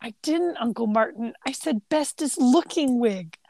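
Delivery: put-on prim boyish correction, climbing very high at the end; Martin Short. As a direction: imitate a boy's wounded insistence. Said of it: "the delivery of Martin Short".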